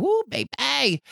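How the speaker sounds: a high, slow excited whoo; excited whoop. Real, not acted. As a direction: let a giddy whoo burst out. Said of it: "your baby boy is excited".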